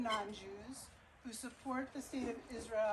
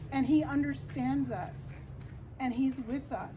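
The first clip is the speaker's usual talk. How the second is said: louder, impassioned plea; emotional; 4 dB louder than usual. Real, not acted. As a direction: speak with rising fervour, pressing each point. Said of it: "I may even get emotional".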